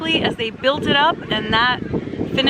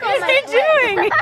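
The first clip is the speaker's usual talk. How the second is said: laughing; 13 semitones higher than usual. Real, not acted. Amused at horse wiping sweat.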